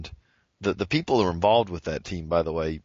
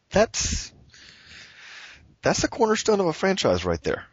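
excited; 12 semitones higher than usual. Real, not acted. Excited praise of trade.

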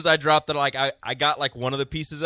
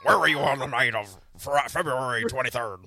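put-on old-timey detective. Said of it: "Why do you sound like an old-timey detective?".

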